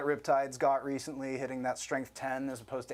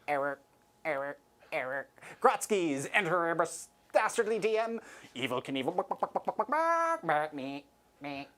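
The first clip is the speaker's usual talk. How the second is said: malfunctioning robot repeating error; robot breaking down mid-cluck; glitching robot; 2 semitones higher than usual. Pretend. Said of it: "Does not compute".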